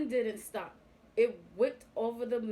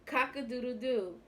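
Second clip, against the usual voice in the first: horse crowing; 3 semitones higher than usual. A narrator's reading. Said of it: "he cried".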